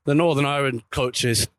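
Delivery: slipping into a Northern Irish lilt; Northern Irish accent. Real, not acted. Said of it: "I didn't mean to say that in a Northern Irish accent".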